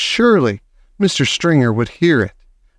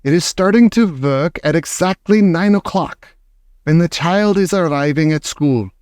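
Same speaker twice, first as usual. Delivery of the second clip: mild triumphant witch shout; lightly triumphant witch; 5 semitones higher than usual. Acted. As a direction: gloat over the plan. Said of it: "shouted the Grand High Witch triumphantly".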